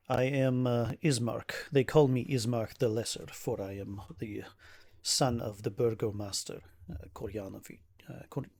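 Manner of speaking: lightly voiced formal, troubled nobleman; weary burgomaster's son. Ismark introduces himself to an adventurer, lightly voiced weary nobleman. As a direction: introduce yourself with measured, slightly weighty formality. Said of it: "and he says".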